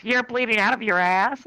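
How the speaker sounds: high, slow question; incredulous girl. Retold or imitated. Woken sick girl questioning him, high slow disbelief. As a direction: stretch it out in pointed disbelief.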